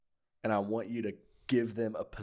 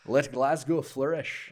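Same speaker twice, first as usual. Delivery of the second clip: slow, drawn-out Scottish accent, raised in pitch and volume; 5 semitones higher, 7 dB louder, much slower than usual. Shown as a demonstration. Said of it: "hear you do it in a Scottish accent".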